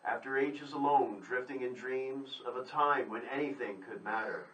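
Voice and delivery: measured, earnest poem recital with pauses between lines; poetry reading. Acted. On the radio poetry show, poet reads his poem in earnest recital. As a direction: give each line its weight, like a spoken-word stage. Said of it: "I'd love to hear a poem from your".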